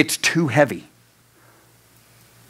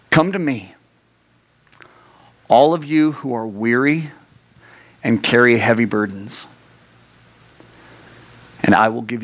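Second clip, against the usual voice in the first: Jesus inviting the weary; 2 semitones lower than usual. Acted. Reading Jesus' words to congregation.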